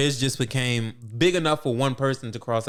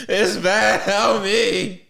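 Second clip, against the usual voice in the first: mock pleading; 7 semitones higher, 5 dB louder, much slower than usual. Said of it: "Botan called Yusuke".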